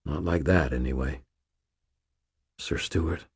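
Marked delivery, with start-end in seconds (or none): 2.6-3.3 soft, tentative question; hushed, careful query; quiet asking. A narrator's reading. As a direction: ask it quietly, well under your usual volume. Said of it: "I asked quietly".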